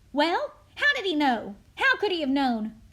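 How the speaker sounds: loud, suspicious demand; accusing questions. Acted. Crowd asking how the boy knew, loud and accusing. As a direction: demand an explanation forcefully.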